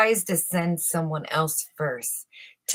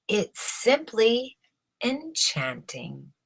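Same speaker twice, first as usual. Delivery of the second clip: slow, drawn-out false admiration; feigned praise; 3 semitones higher, slower than usual. Acted. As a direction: savor it with fake delight. Official praising to emperor.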